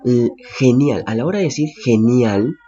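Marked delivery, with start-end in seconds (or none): 0.6-1.0 "genial" con sonido inicial de jota; G como jota. Shown as a demonstration. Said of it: "suena como una J". 1.8-2.6 "genial" recalcado, con jota inicial; G como jota. Shown as a demonstration. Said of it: "suena como una J".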